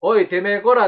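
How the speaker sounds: lightly voiced punk threat; japanese delinquent tough talk. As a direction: snarl it like a street tough. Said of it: "まだやってんねや、俺、そのノリ".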